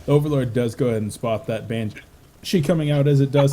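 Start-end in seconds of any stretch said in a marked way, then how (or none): 2.4-3.5 laughing. Real, not acted. Laughing while hiccuping.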